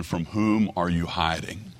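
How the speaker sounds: quiet, falling-off question with whom leaned on; soft question. Acted. Preacher asking the congregation softly who they hide from. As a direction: ask it softly, almost to yourself.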